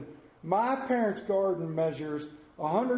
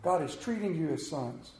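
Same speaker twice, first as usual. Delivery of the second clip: tender repeat; 2 semitones lower, 3 dB quieter than usual. Real, not acted. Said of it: "That is a beautiful verse".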